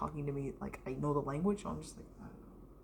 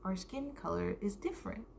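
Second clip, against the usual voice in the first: lightly voiced teacher, a little higher; imitated teacher; 4 semitones higher than usual. Teacher singling out a pupil on skin colors, lightly imitated explaining voice. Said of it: "the teacher was talking about skin colors".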